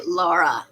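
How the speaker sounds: "Laura" said the Russian way, as Lara; Russian pronunciation. Shown as a demonstration. Explaining the Russian name to a co-host, "Laura" pronounced Lara. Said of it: "there's also the Russian way".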